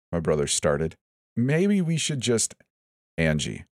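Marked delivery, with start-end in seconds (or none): 1.4-2.6 anxious pleading. Acted. Brother cautious pleading. 3.2-3.7 low firm butting in; quick cutting interruption. Acted. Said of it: "Kevin quickly butted in".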